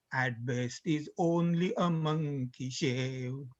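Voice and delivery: reciting a comic poem to students; poem recitation. Acted. Continues reciting the lyric.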